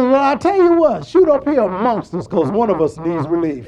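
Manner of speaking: loud start, high, settling toward the end; hollered plea. Retold or imitated. Man in the tree asking to be shot at, hollering his plea. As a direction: holler it, then come down into the punchline. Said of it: "we can holler out like that".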